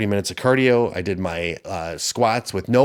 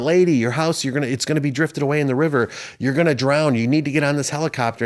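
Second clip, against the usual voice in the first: urgent helicopter pilot; 4 semitones higher than usual. Retold or imitated. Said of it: "a helicopter comes down".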